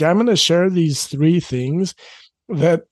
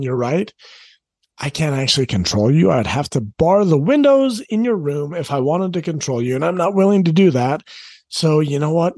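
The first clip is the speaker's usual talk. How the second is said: calm sincere acceptance; 2 semitones lower than usual. Shown as a demonstration. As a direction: reassure the teen their choice is theirs. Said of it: "I'm saying".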